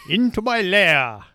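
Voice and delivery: slow, loud villain lair voice; spooky voice. Acted. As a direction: draw it out like a lurking ghoul. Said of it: "I like my spooky voice".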